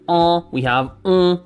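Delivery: slow "on" and "un" said through the nose; nasal vowels. Shown as a demonstration. Teacher slowly showing French nasal vowels. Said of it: "different nasal vowels".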